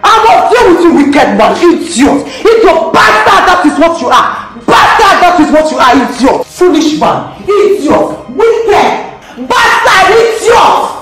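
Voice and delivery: raging, shouting curses at him; furious cursing. Acted. Woman cursing her enemy Emmanuel, furious shouting. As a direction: spit every curse at the man who beat her.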